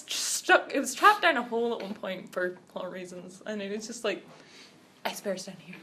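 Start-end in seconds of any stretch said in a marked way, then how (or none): 5.1-5.8 low, quiet monotone, no yelling; flat deadpan bear line. Retold or imitated. Girl quoting the cartoon polar bear, deadpan. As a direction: mutter it like a bored bear stuck in a hole.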